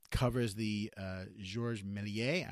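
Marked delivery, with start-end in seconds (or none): 1.4-2.5 slow, careful French accent on "Georges Méliès"; French name. Shown as a demonstration. Reviewer carefully tries the filmmaker's name in a French accent. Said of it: "if I'm not ruining that too bad".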